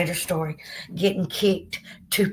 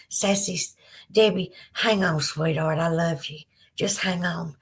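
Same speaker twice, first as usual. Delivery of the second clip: tender comfort; 2 semitones lower than usual. Real, not acted. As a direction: gently hold her up with the words. Comforting a viewer who is hurting.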